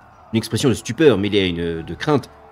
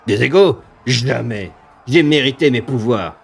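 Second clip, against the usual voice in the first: slow, relishing monster threats; gloating demon. Acted. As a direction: savour the coming kill. GM voices the demon.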